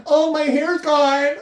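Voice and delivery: high, slow, wailing sob-voice; dramatic high wail, drawn out; mock crying. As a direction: ham up the girl sobbing over lost hair. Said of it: "crying in the washroom".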